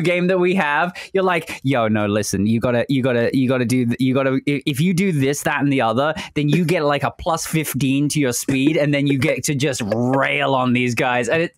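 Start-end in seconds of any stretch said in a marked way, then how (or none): 1.6-11.3 lower, pushy strategy pitch; lightly imitating an eager gamer; hyped gamer friend. Imitating friend's gaming advice.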